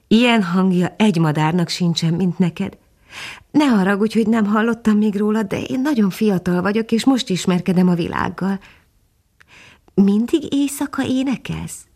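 put-on young dog introducing himself to the bird; eager young dog. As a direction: speak like a young, awed puppy. Young dog voiced in story.

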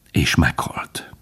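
slow, whispery, low ending; hushed. A narrator's reading. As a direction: let the death fade into breath. Narrator tells the fox's death. (halkan, elhaló hangon)

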